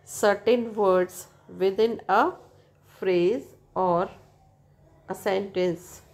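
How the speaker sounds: slow, careful reading from the book; textbook reading. Acted. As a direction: read the definition out slowly for students. Reads textbook English slowly.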